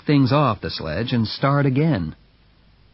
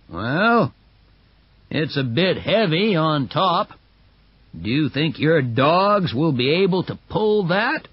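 doubtful onlooker; 4 semitones higher than usual. Acted. Onlooker voiced in story.

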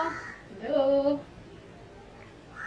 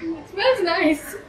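sarcastic, higher; 4 semitones higher, slower than usual. Pretend. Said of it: "fake praise of foul drink".

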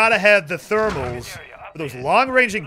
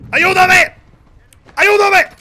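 high, loud mock plea in Spanish; mock cry for help; 12 semitones higher, 10 dB louder, much slower than usual. Gamer under fire jokingly begs teammates, hammed-up plea. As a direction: wail for help like a hammed-up victim.

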